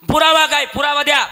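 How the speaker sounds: high, loud demand; judge demanding evidence. Acted. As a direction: demand it sharply from the bench.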